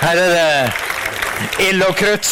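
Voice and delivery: high, loud, slow exclamation with a laugh; fired-up cheerful shout; excited praise. Real, not acted. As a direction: cheer the preacher on. Excited response to sermon.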